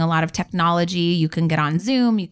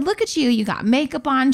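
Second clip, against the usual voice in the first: delighted praise; 5 semitones higher than usual. Retold or imitated. Praising grandma on call.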